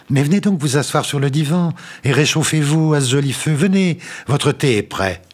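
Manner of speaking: sweet landlady. A narrator's reading. La logeuse corrige et invite. (logeuse roucoulante, voix haute et douce)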